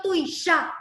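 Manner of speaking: tuisha with the last A stressed; stress on final A. Shown as a demonstration. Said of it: "es la última A que lleva la carga".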